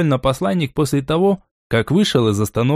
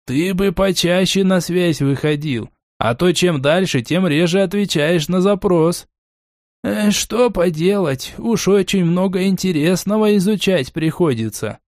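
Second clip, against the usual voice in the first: lightly raised conversational voice; character voice; 6 semitones higher than usual. Acted. Dialogue voiced by narrator.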